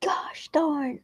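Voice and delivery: whispered gosh darn. Real, not acted. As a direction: breathe it out in a whisper.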